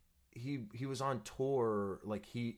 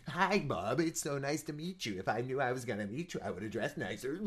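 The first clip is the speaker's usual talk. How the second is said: mock starstruck gushing, pitched up; higher, hurried re-enactment of geeking out; 4 semitones higher than usual. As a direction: gush like a nervous fan. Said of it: "Like, I was geeking out".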